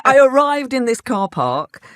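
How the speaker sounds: ordinary talk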